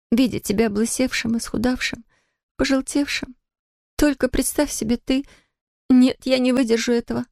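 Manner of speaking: picture him wasted and recoil; exclaiming in horror. A narrator's reading. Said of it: "воскликнула она". (высокое испуганное восклицание)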